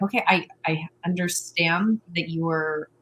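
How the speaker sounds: gently calm a frustrated partner; soothing reassurance. Retold or imitated. Partner calming a frustrated partner, soft and reassuring. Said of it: "slow it down there and be like".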